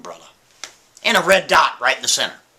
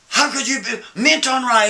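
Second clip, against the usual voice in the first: mock yell; 7 semitones higher than usual. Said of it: "he starts screaming at himself".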